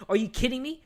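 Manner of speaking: high, incredulous snap; reacting to the film's friend, outraged; outraged disbelief. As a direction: pitch it up in sheer disbelief. Outraged retort to movie character.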